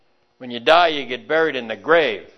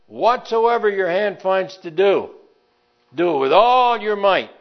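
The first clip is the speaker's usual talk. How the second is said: preaching at full force; 6 semitones higher than usual. Acted. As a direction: drive it home to the congregation. Repeats exhortation, loud.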